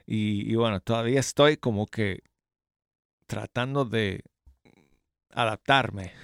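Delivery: talking through new braces. Real, not acted. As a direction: still getting used to braces. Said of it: "Me pusieron los brackets".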